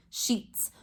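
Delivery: soft whisper of the word; whispered answer. Shown as a demonstration. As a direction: breathe the word softly for the class.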